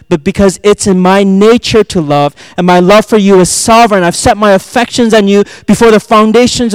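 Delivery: thundering divine declaration; God declaring love. Acted. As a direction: proclaim it at full force, line upon line. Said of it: "God is saying".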